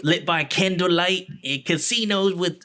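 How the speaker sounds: a mock Cockney accent that slips; hammed-up Cockney. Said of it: "trying to do a Cockney accent".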